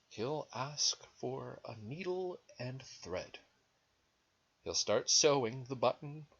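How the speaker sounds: animated story reading with swooping pitch; lilting read-aloud; picture-book narration. A narrator's reading. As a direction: read to small children, leaning on key words. Reads picture book to children.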